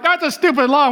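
put-on kid's complaint. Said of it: "when you're a kid, you're like".

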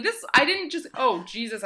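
sudden pain from a bumped elbow; wincing after hitting funny bone. Real, not acted. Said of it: "I hit my funny bone".

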